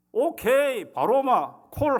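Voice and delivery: loud, high eager okay; eager yes. Retold or imitated. Pastor eagerly accepting the deacon's stew invitation, loud and bright. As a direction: jump at the invitation.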